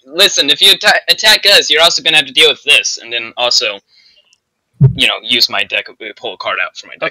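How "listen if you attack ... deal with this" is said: loud, high-pitched yelling. Playing a character in a game, warning others not to attack, yelling. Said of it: "I'm yelling".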